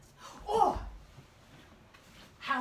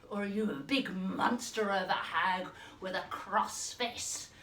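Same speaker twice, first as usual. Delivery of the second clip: lower, gruff cross hag; a hint of a monster hag; 5 semitones lower than usual. Shown as a demonstration. Teacher showing class a cross monster hag. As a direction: drop down low like a grumpy big hag. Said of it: "Think about the facial expression and the voice".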